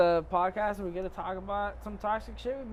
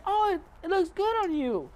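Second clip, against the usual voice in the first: lightly voiced wife, pitched up high; mock wife voice; 11 semitones higher than usual. To her husband about his gray hair, a mock high wife voice. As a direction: play the wife sweetly admiring. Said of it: "she's over here".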